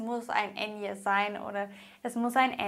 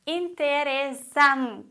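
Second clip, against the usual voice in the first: interesante drawn out slowly, SAN louder and held, te dropped after it; penultimate stress; 2 semitones higher, 3 dB louder, slower than usual. Shown as a demonstration. Teacher demonstrates the rule, interesante with stressed, lengthened san. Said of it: "Betonung auf der vorletzten Silbe".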